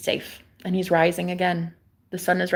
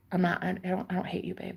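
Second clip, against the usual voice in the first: whisper; 7 dB quieter, faster than usual. Real, not acted. Unvoiced whisper.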